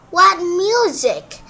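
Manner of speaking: high, loud and slow wonder; amazed delight. A narrator's reading. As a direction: marvel at the sound. Servants amazed by frog.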